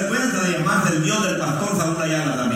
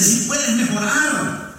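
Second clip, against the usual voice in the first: loving scold; 6 semitones higher, much slower than usual. Retold or imitated. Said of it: "Regañándome con regañada santa".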